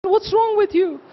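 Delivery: put-on high, concerned old Parsi lady. Speaker voices the old Parsi lady worried at her door, high and concerned. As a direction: voice the kindly old auntie asking what is wrong. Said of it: "And she said".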